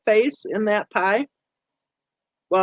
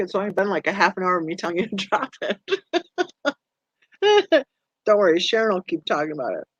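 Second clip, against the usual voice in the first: laughing; faster than usual. Real, not acted. Laughing while teasing Rebecca.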